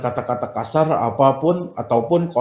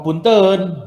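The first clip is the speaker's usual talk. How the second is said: a lightly raised Sundanese "Punten"; Sundanese polite excuse; 5 semitones higher than usual. Shown as a demonstration. Teacher showing the Sundanese way to say excuse me, lightly raised. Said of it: "kalau orang Sunda mah".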